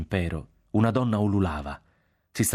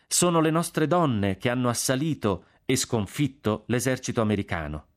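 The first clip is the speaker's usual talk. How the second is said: measured sermon delivery with raised pitch; preaching; 4 semitones higher than usual. A narrator's reading. Young curate telling parishioners about women and soldiers, preaching. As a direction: declare it from the pulpit. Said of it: "nella sua predica il giovane curato".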